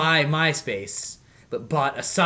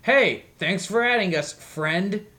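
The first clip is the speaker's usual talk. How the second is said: spammy band voice; 5 semitones higher, slower than usual. Retold or imitated.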